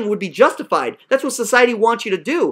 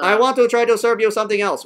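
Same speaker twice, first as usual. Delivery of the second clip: mocking imitation; 2 semitones lower than usual. Teacher echoing the student's excuse, mocking imitation. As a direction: parrot it back in a stilted drone.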